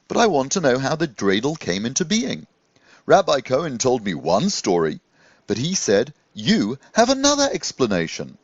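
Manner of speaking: a gentle magical scarecrow asking; eager young scarecrow wondering aloud; Jaffa the scarecrow. Acted. Jaffa asks Rabbi Levi.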